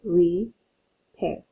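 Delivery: "Repair" split as re, pair; split into syllables. Shown as a demonstration. Teacher showing the class how "Repair" splits into syllables. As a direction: slowly break "Repair" into re and pair. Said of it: "that looks like a prefix".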